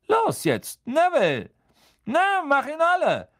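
high, excited rallying cry; urging on. A narrator's reading. Teacher sending Neville against the boggart, urging on.

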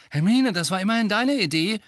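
high, loud protest; indignant. A narrator's reading. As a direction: throw it back in outrage. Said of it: "sagte Ron entrüstet".

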